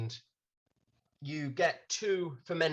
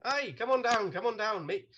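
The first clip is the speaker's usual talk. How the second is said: Irish barman; 7 semitones higher than usual. Acted. Laddie calls them down.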